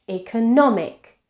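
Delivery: "economic" stressed on -nom-; shifted stress. Shown as a demonstration. Teacher showing how stress moves, "economic" stressed on -nom-. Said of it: "stress changes position in the syllable".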